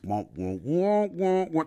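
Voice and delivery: droning wordless muted-trombone wah-wahs; Charlie Brown's parents. Retold or imitated. Preacher mocking babbled prayers, droning cartoon grown-up wah-wahs. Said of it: "it sounded like Charlie Brown's parents".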